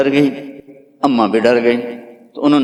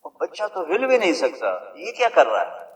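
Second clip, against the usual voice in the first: much softer, almost breathed, in wonder; hushed awe; 3 semitones higher, 10 dB quieter than usual. Acted. Preacher to the congregation, describing the newborn's prostration, hushed. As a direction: lean in and hush the room as if the baby might hear.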